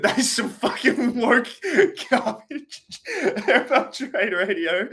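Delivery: high, loud rant through laughter; laughing rant. Real, not acted. Not wanting to be that guy, laughing indignant rant. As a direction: rail at it while cracking up. Ranting while laughing at himself.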